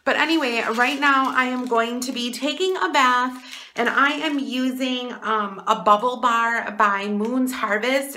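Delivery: echoey bathroom sound. Real, not acted. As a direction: voice echoing off bathroom tiles. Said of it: "it's echoey in here".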